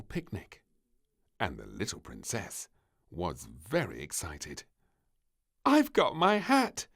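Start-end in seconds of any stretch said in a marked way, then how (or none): 5.6-6.9 giggling. A narrator's reading. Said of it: "she giggled".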